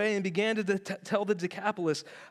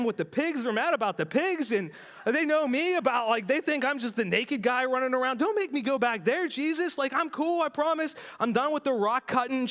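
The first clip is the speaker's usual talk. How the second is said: higher, frantic begging; lightly voiced desperate begging; pleading; 3 semitones higher than usual. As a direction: talk Jesus out of sending him back. Man begs Jesus to take him.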